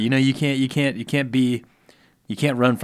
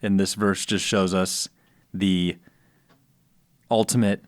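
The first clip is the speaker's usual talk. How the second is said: hushed, low golf announcer; slow broadcaster homily, pausing between short phrases; Jim Nantz; 5 semitones lower than usual. Acted. Co-host expounds the verse as a golf announcer, slow and low. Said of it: "you answer it in your best one".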